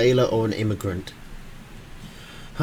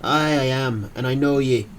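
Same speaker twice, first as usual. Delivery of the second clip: put-on Irish accent. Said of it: "in a thick Irish accent".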